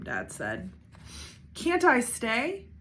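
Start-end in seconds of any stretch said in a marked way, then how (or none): 1.5-2.7 pleading. A narrator's reading. Brother begging to stay.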